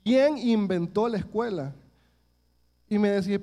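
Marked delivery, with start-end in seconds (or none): 0.0-1.7 put-on slow, mildly resentful child's question; a touch of a kid's grudge, drawn out; with hatred. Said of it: "Pero yo con un odio". (con un odio leve, lento)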